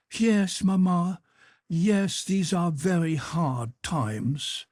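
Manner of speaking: put-on an earnest young officer asking a favour; Berg's pleading voice. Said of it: "said Berg".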